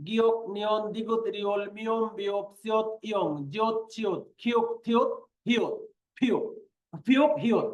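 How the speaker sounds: letter names chanted off in pairs; counted recitation. Shown as a demonstration. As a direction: count through the list in even beats. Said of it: "হাতের আঙ্গুলের করা গনে গনে". (গুনে গুনে জোড়ায় জোড়ায় পড়া)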